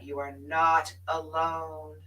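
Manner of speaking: slow, deliberate comfort; earnest slow promise; slow sincere reassurance. Real, not acted. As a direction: say it slowly and sincerely. Repeated reassurance.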